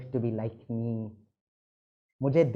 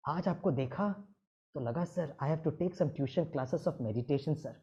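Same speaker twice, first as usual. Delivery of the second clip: çok daha alçak sesle, neredeyse fısıltıyla itiraf; utangaç itiraf; 6 dB quieter than usual. Retold or imitated. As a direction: hocaya sessizce, çekinerek dert yan. Student confides his anger problem.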